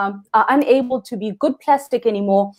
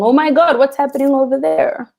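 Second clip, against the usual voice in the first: higher-pitched mock panic; mock freaking out; 4 semitones higher than usual. Diver voicing onlookers in an emergency, mock freaking out. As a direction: play a bystander's alarm, lightly hammed-up. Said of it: "everyone else might be freaking out, saying".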